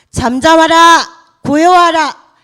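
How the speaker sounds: calm the sea with a loud slow decree; commanding rebuke. Acted. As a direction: order the storm to be still. Jesus rebuking the storm, retold.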